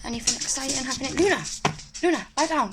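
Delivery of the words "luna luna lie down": louder, higher command with falling tune; calling the dog. Real, not acted. Owner telling Luna to lie down, raised-voice command. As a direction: call out sharply to a pet.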